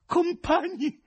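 very high, loud, frantic call; frenzied yell. A narrator's reading. President calls to the investigators, frenzied yell. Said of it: "urlò frenetico il presidente".

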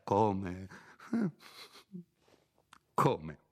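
come, come con leggero sdegno; quasi sdegnoso. Acted. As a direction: ribatti con un filo di disprezzo. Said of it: "con voce quasi sdegnosa". (il curato che risponde a Renzo, lievemente sdegnoso)

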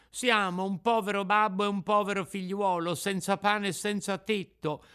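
put-on high puppet-boy voice; pleading Pinocchio. Puppet begs shelter for father and son, pleading. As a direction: call the plea through the door.

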